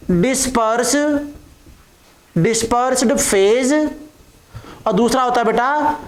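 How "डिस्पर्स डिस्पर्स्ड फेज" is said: drawn-out term, spoken slowly; slow dictation. Real, not acted. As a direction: say it slowly as you write. Dictating a term while writing it. (लिखते हुए धीरे-धीरे)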